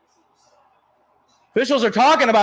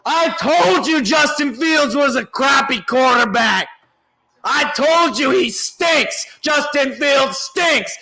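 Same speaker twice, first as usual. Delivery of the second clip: gloating rant. Real, not acted. Gloating rant about the quarterback.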